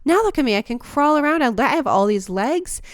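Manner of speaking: excited caterpillar. Retold or imitated. Imagined caterpillar boasting about itself, hammed-up excitement. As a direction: gush like a proud little bug. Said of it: "as a caterpillar, it's this like".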